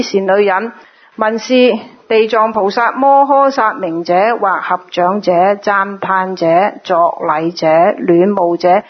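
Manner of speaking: measured, phrase-by-phrase scripture reading; formal recital of a Buddhist scripture; sutra recitation. Acted. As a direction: read the sutra aloud with drawn-out phrase endings. Reads sutra passage aloud.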